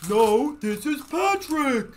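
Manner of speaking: high, very loud, slow cartoon bellow; drawn-out, booming cartoon doofus; Patrick. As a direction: yell it slowly like an indignant cartoon oaf. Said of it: "What's another one I do?".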